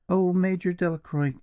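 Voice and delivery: high, urgent call of his name; pleading exclamation. A narrator's reading. Julia calling to Delacroix in remorse, high. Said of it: "exclaimed Julia".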